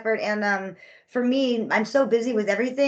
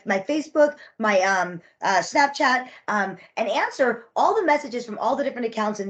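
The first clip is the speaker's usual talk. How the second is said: sarcastic sweetness. Retold or imitated. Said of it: "And I said".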